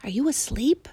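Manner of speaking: breathy whispered question. A narrator's reading. Boy asking the mouse, whispered. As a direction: whisper so as not to wake anyone. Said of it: "whispered the boy".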